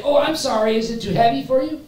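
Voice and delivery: very high, over-solicitous mock concern; mock apology. Preacher imagines onlookers apologizing to stumbling Jesus, mock concern.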